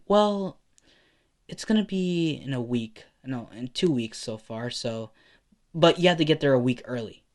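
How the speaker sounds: mother voice. Acted. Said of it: "she responds saying".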